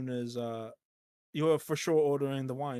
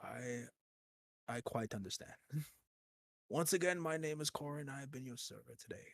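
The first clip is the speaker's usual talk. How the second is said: quiet, courteous sign-off; soft polite waiter; 3 semitones lower, 10 dB quieter than usual. Pretend. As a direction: bid farewell like a formal server. Waiter's farewell.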